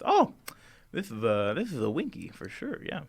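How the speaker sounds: lightly voiced Scarecrow King, casually explaining; a hint of a chatty, confident king.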